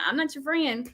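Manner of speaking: a hint of a firm parent warning; stern parent. Father warning his kids to check their tone, firmly. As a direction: put the kid in their place. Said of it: "I say that to my kids".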